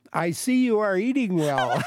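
put-on light German accent, said through a laugh; mock German accent, laughing. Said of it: "in her thick German accent say something like".

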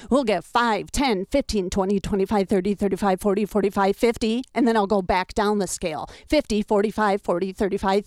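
rhythmic counting up and down the scale; number scale drill. Shown as a demonstration. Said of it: "like this".

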